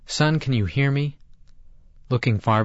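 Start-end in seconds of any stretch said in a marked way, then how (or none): 0.0-1.2 shouting. A narrator's reading. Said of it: "I heard my father shout".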